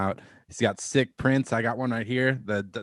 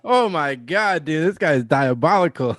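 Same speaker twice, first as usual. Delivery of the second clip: real, loud, higher-pitched amazement; amazed disbelief; 5 semitones higher, 8 dB louder than usual. Real, not acted. Host hears the photographer's dark remark, amused disbelief. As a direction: react aghast and amused. Host reacts to the shocking story.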